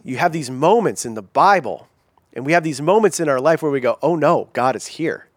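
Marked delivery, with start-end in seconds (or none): 4.0-5.3 mild mock dread at an unwelcome arrival; dismayed. Preacher acting out people's unease at God showing up, dismayed. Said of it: "Not like, oh yay".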